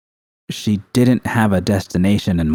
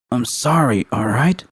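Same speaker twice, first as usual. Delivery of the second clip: through gritted teeth; 3 semitones higher than usual. Acted. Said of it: "V said through gritted teeth".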